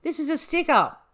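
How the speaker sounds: put-on very high, loud English accent; English accent retry. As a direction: squeak the line out in an over-the-top English accent. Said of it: "Here we go".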